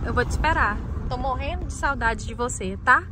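tinny speakerphone call. Acted. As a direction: voice through a phone speaker. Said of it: "colocar no Viva Voz".

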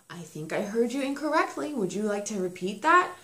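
mock gentle-parenting voice; too soft. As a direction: ask it gently, mock-patiently. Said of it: "a little too soft for".

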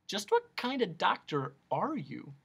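mildly suspicious question. Acted. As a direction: ask it with guarded doubt. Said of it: "Milo asked suspiciously".

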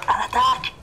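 high rallying yell; battle cry. Pretend. Commanding troops in battle.

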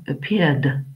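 "appeared" ending with a plain d; model pronunciation. Shown as a demonstration. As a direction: say "appeared" with the final d sound. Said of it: "le E D se prononce de".

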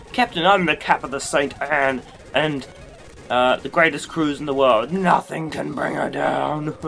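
loud put-on captain, slowing into the boast; ship's captain. Captain boasts of the Saint Anne, hammed-up captain voice. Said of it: "Oh, it's the captain".

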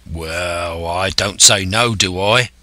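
mild sailor's grumble; grudging coxswain's grumble; growled. Acted. Coxswain giving in to Silver, mildly growled. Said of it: "growled the coxswain".

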